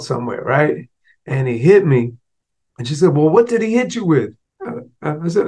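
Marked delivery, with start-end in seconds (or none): 3.2-4.3 much higher, probing mom; mother. Retold or imitated. Mother asks what he was hit with, higher probing. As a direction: ask like a stern mother.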